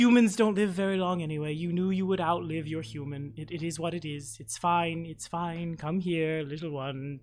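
calm the crying cub gently; softening tender reassurance; soothing mother. Acted.

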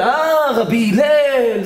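high, drawn-out delighted greeting; surprised recognition. Acted. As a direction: suddenly realise who is at the door. Recognising the visitor at the door. (הפתעה מבוימת של זיהוי)

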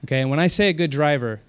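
a driver calmly telling off a screaming woman. Retold or imitated. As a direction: keep a straight face and calm. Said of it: "very calm".

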